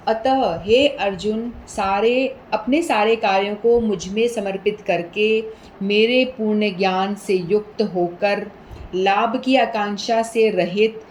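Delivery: slow, solemn reading of the verse; measured devotional read; scripture translation reading. Acted. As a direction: read God's words to Arjuna slowly.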